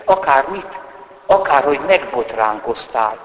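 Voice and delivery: usual speaking voice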